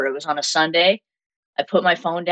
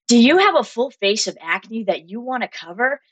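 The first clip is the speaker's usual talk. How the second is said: polished announcer read, pitched higher; mock radio voice, a bit higher; fake radio voice; 6 semitones higher than usual. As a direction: put on a slick, safe radio host voice. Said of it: "very fake".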